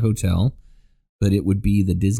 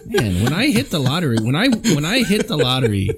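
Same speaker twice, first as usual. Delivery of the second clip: higher, talking through laughter; laughing; 8 semitones higher than usual. Real, not acted. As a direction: grin and laugh the words. Laughing through lottery boast.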